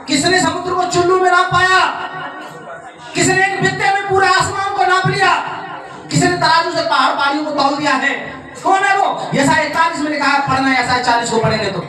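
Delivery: preaching at full force. Acted. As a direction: thunder it out to the congregation. Preacher proclaims God's power.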